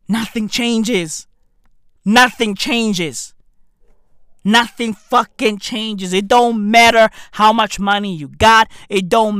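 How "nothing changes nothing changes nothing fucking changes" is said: each word slowed and weighted; slow heavy refrain; slow, deliberate. Acted. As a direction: drag it out for emphasis.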